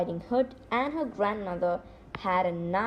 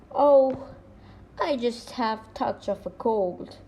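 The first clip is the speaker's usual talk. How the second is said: squeaking wolf. Acted. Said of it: "squeaked the wolf".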